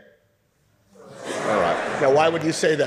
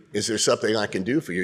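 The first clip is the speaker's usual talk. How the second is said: hostile shopkeeper; faster than usual. Shown as a demonstration. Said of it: "obviously hates your guts".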